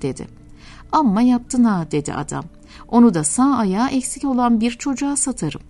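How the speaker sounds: steady storytelling voice, lightly acting both characters; story narration. Preacher reading a parable to listeners, story narration. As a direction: read it like a tender radio tale. Reads a story aloud on air.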